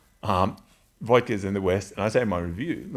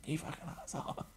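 laughing quote; 8 semitones higher, 15 dB quieter than usual. Retold or imitated. Retold punchline while laughing.

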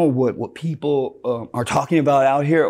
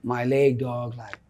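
mumbled, much softer apology to a friend; sheepish quiet apology; 7 dB quieter than usual. Retold or imitated. Homie apologizing to friend about smelly leg, softly. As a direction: hang your head and mutter sorry. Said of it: "And he's like".

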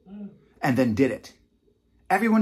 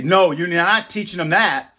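slow, louder mock refusal; forbidding authority; 4 semitones higher, 5 dB louder than usual. Authority forbidding parents to teach, mock stern. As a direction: lay down the law, stretched out. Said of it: "if the people in authority say".

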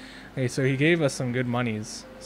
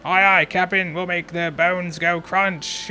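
pirate voice; 4 semitones higher, 4 dB louder, slower than usual. Acted. Pirate crew answering captain.

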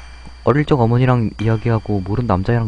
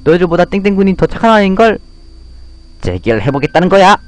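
put-on higher, louder scolding girl voice; indignant little girl; 9 semitones higher, 5 dB louder than usual. Girl defending the boy from bullies, indignant and loud. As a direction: stand up to the bullies, fired up.

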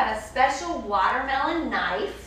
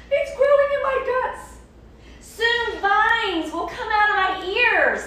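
crocodile voice; 8 semitones higher, 4 dB louder than usual. Acted. Crocodile fears the growing seed.

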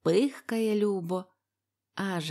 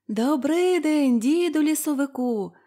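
calling out in chorus; 7 semitones higher, 6 dB louder than usual. A narrator's reading. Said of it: "гукають дідові хором".

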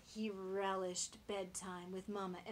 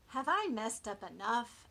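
hopeful piglet; 3 semitones higher, 9 dB louder than usual. Acted. Piglet asks parents.

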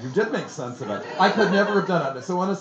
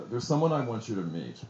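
low, calm retold reassurance; quietly composed, pitched down; 7 semitones lower, 6 dB quieter than usual. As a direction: quote him calmly, in a lowered voice. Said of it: "very calmly".

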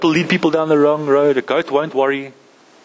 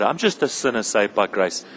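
lower, softer, defeated little voice; mock self-pitying sigh; 4 semitones lower, 3 dB quieter than usual. A Christian moping to himself, in mock self-pity. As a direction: sound sorry for yourself, mock humble. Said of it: "we as Christians live in this place where".

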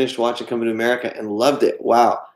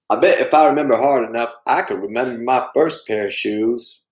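Forrest Gump. Acted. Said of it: "do the voices".

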